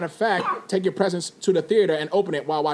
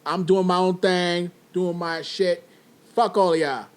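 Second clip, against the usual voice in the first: mock defiant shout; 5 semitones higher, 6 dB louder than usual. Mock tough-guy rant to listeners.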